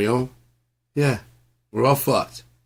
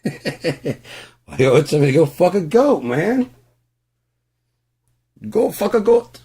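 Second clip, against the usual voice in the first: high, loud laughing; laughing outburst; 10 semitones higher, 8 dB louder than usual. Real, not acted. Laughing at the phrase.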